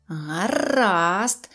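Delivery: understated menace, drawn-out growl of a word; threatening grumble. A narrator's reading. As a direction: grumble it as a warning. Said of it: "пробурчав Незнайко з погрозою". (погрозливе буркотіння)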